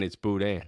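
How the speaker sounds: "Boudin" said boo-DAN, nasal end and no hard n; French pronunciation. Shown as a demonstration. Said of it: "It's B O U D I N".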